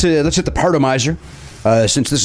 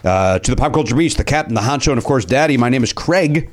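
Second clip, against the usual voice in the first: put-on Cajun accent. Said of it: "you're still doing the accent".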